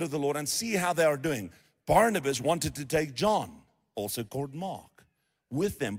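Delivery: measured Bible reading voice; scripture reading. Acted. Pastor reading Acts to the congregation, measured reading voice. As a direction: read the passage out steadily to the church.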